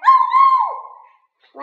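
very high, loud "oh no"; alarmed cry. A narrator's reading. Toys seeing a cloud of dust fly up, alarmed cry. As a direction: shriek out in alarm.

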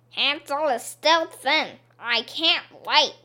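hungry and impatient; impatient witch. Acted.

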